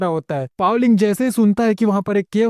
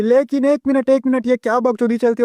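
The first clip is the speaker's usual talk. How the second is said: startled realization; 4 semitones higher than usual. Acted. Master jolts awake, suspicious.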